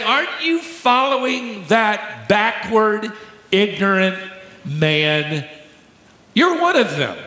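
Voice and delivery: lightly mocking servant girl taunting Peter. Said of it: "is making fun of Peter".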